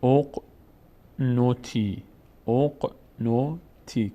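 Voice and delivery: slow syllable-by-syllable reading of اق نوتی, starting "oq"; damma on the first vowel. Shown as a demonstration. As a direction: open اق نوتی with a short "o": "oq-no-ti".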